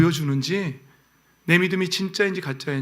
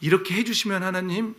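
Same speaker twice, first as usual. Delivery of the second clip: lightly voiced demanding believer, rising on 해주시면; a hint of someone bargaining with God, lifting 해주시면; a touch of the bargaining believer; quoting the wrong prayer; 3 semitones higher than usual. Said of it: "그런 말 하지 마세요".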